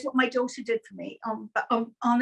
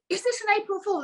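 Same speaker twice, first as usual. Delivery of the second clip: suspicious question; 9 semitones higher than usual. Retold or imitated. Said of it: "and I went".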